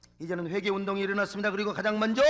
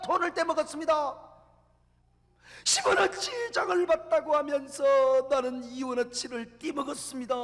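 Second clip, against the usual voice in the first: a higher, louder weeping confession; tearful plea; 4 semitones higher, 4 dB louder than usual. Retold or imitated. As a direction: beg forgiveness through tears. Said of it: "눈물을 철철 흘리며 얘기합니다".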